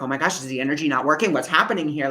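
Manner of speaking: rushed, mildly panicky self-quote; retold freak-out. Healer doubting the energy is working, retold freak-out. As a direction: replay a worried thought at speed. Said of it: "like, freaked out".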